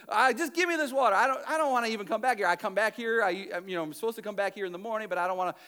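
fast, tossed-off sarcastic reply. Retold or imitated. Samaritan woman brushing off Jesus, fast and sarcastic. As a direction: rattle it off, mocking.

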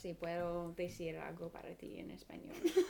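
Spanish line said softly, half whispered through a laugh; quiet, giggly Spanish; soft Spanish reply. Shown as a demonstration. Asked to say something in Spanish, she answers in a soft giggly voice. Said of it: "Can you say something in Spanish".

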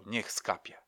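quiet group response, stressing „Niech”; murmured repeat. Retold or imitated. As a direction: mutter it back like a congregation. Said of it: "każdy z was powtarzał".

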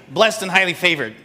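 parroting the churchgoer's cliché; mocking. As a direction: say it like an empty stock phrase. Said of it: "that's how I look at you".

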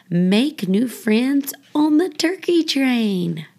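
lively, sing-song picture-book reading; reading to children. Acted. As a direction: read it like a bedtime rhyme for little kids. Reads children's book aloud.

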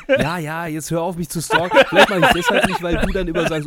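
talking through laughter; laughing. Real, not acted. Laughing while teasing back.

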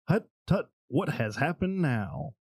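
a lightly put-on Dutch grandmother, sharp at the start then slow; mild hint of an old Dutch lady scolding; old grandmother's accent. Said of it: "The witch replied with his grandmother's accent".

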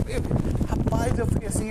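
ordinary talk

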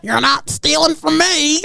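put-on high, frail old lady voice; very old faint voice. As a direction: croak it like a feisty granny. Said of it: "should have said that in an old person's voice".

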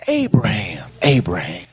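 whispered calling of the name; hushed heavenly voice calling Abraham. Acted. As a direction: breathe it out like a distant call. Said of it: "a voice calls out from heaven".

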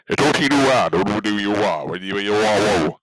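mock Chinese gibberish; fake Mandarin. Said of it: "Let me practice right now, some Mandarin".

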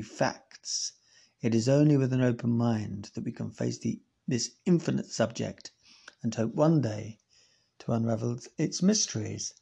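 grand, rising reading of the article's close; dramatic newspaper read. Acted. Reads newspaper article's closing.

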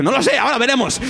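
high casual voice; technician voice. Retold or imitated. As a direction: voice the sound guy lightly. Technician quoted in story.

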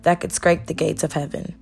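measured spoken-word poem delivery; spoken word poem, steady and proud; poem recitation. Acted. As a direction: recite it like a performance poem, each line landing. Recites a Where I'm From poem.

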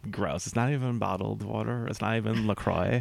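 snooty voice through clenched teeth; millennial spoof voice. Pretend. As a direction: sneer like something smells bad. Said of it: "I like when you do this voice, you just clench your teeth".

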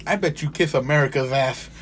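retelling the insult with a chuckle; laughing while quoting. Retold or imitated. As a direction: quote said through a laugh. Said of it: "is what I said".

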